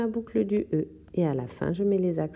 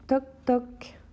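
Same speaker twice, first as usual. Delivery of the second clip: playful whispered knocking; 5 semitones higher than usual. Shown as a demonstration. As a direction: whisper it like a secret knock at the door. Knock-knock repeated softly at end.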